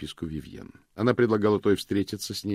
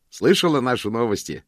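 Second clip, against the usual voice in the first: cheerful; 4 semitones higher, 6 dB louder than usual. A narrator's reading. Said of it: "жизнерадостно спросил он".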